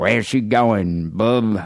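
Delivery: slow, drawn-out hint of Cajun; Cajun accent. Bar worker asking where to carry a drunk woman, light Cajun accent. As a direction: lightly imitate a Cajun accent, stretching the words. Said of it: "but in that Cajun accent".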